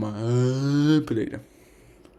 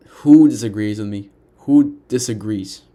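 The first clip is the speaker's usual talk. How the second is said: challenging shout; 8 dB louder than usual. Real, not acted. Challenging the viewers.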